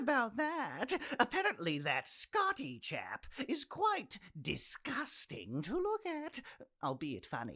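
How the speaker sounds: hushed, secretive aside; gossipy whisper. Acted. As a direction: lean in and dish the gossip. Gossiping about the disgusting Scotty.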